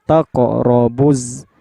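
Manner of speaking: slow "Taqo robuz" with bounced q; bouncing qalqalah. Shown as a demonstration. Teacher showing qalqalah, "Taqo robuz" with an echoing q. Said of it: "mantul ya".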